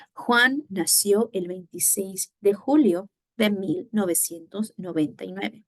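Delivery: questioning tune towards "nueve"; question intonation. Shown as a demonstration. Teacher showing the class how intonation changes, question intonation. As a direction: read "noventa y nueve" as the end of a question. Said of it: "Intonation changes. Again, intonation".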